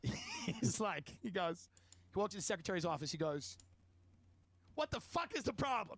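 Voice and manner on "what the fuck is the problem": slow, mildly heated mock demand; imitated irate salesman. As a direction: play a coworker griping, half-hearted anger. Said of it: "That's the way he's".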